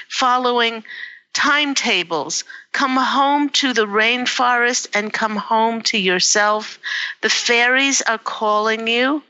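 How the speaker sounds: gently urging Beth home; channeled angel message. Retold or imitated. Psychic relays the angels' call to Beth, tearful and pleading. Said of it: "They're saying".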